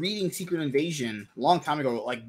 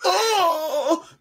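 mock delighted cry; 10 semitones higher, 9 dB louder, much slower than usual. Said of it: "I'm like".

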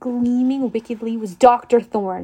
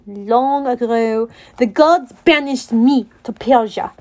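the Manticore, bitter villain; slower than usual. Acted. The Manticore tells his past.

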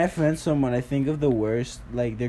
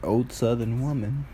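put-on old Southern woman. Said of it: "She's like a southern".

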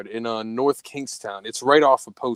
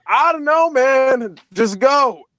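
high, loud, rushed plea; panicky; 12 semitones higher, 7 dB louder, slower than usual. Retold or imitated. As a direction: beg him just to drive. Retold panic, urging escape.

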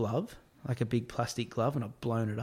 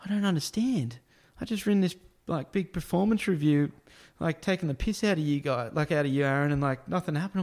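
higher-pitched baffled coworker; imitated confusion; 3 semitones higher than usual. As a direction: act out a puzzled complaint. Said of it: "Matt's in there all confused going".

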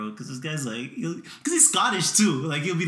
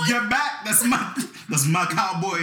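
higher mock possessive protest; grown man imitated; 4 semitones higher, slower than usual. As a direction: act out a grown man guarding his toy. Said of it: "This grown-ass man is like".

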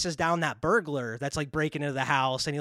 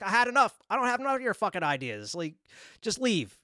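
mildly fed up, pitched up; exasperated retelling, higher voice; retold screaming argument; 4 semitones higher than usual. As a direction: act out a quarrel without really screaming. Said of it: "they're screaming at each other".

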